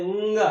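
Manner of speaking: ंग with a long hummed nasal before the g; careful, drawn-out ंग; demonstrated nasal pronunciation. Shown as a demonstration. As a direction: hold the nasal in ंग, then release. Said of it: "इसका एक आप उच्चारण ध्यान रखेंगे".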